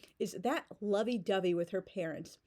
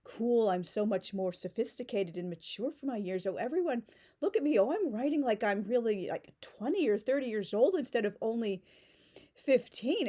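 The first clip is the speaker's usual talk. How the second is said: pretentious show-off. Pretend. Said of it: "trying to sound".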